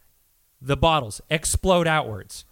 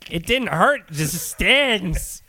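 Louis impression; 5 semitones higher than usual. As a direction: do a raspy Louis Anderson bit. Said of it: "I can't keep doing the Louis impression".

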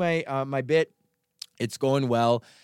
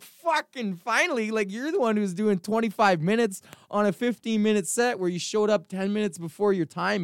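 higher, half-acted annoyed retort to a fellow comic; sarcastic fake-relief quote, pitched up; mock exasperated rant; 5 semitones higher than usual. Retold rant at another comic.

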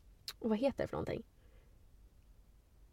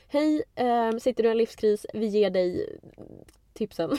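mock pep talk. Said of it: "Det kändes som ett litet peptalk så här".

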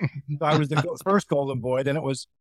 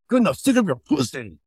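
Yoshi impression. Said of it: "Here's my impression of Yoshi on The Bachelor".

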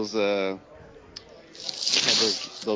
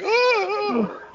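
mock shocked gasp; 5 dB louder than usual. Kid reacting to prisoner.

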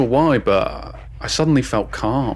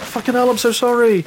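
much higher yelping creature voice; creature bark; 12 semitones higher, 4 dB louder than usual. Retold or imitated. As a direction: bark it out like a startled beast that apologises. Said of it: "bark a noise that sounded like".

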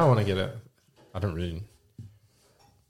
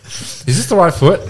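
put-on higher, slower child asking; kid voice; 8 semitones higher, 6 dB louder, slower than usual. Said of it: "my kids, like, say, ask me".

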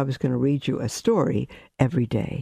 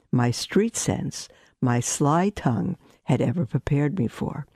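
story narration. A narrator's reading. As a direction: draw the listener into the tale. Reads a story aloud.

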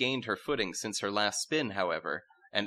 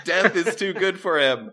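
loud, higher angry heckle; crowd shout; 9 semitones higher, 8 dB louder than usual. Acted. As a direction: yell it from the crowd. Court shouting.

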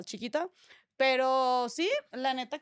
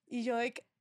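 ordinary delivery

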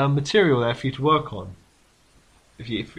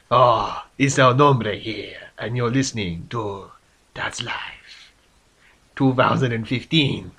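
lightly voiced Spanish-flavoured cartoon host, slow on the name; a hint of a Mexican cartoon character introducing the show; El Nombre voice; 2 semitones lower, slower than usual. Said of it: "take it away, El Nombre".

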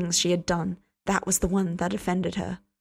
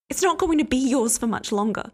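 retorting; 5 semitones higher, 3 dB louder than usual. Acted. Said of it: "she beat back".

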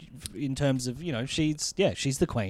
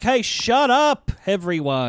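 king demanding attention; 3 semitones higher than usual. Acted. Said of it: "he does get everyone's attention".

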